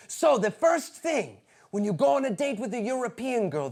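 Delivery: lightly done mock Belgian accent. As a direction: lecture in a bad Belgian accent. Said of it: "that's not a Belgian accent".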